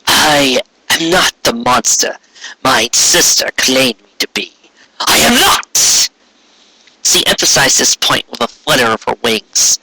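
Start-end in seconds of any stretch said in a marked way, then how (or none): 0.0-4.5 slow, stately archaic royal voice; regal alicorn queen. Acted. Corona addressing Trixie, slow and stately. Corona denies being a monster. 5.0-6.1 high, drawn-out I am not; insistent denial. Acted. Corona protesting to Trixie, high and drawn out.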